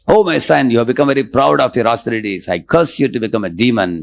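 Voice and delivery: lightly voiced angry goddess cursing; offended Parvati. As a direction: rebuke him as an offended mother. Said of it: "But Parvati took offense".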